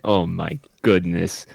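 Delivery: slow, slightly Midwestern attempt at an accent; fumbled Midwestern-sounding accent; botched accent, accidentally Midwestern. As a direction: feel for the accent and land somewhere Midwestern. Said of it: "that sounds more Midwestern".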